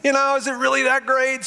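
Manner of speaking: a skeptic who expects a letdown; skeptical doubt. Retold or imitated. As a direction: question the hype, half mocking. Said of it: "So I'm kinda like".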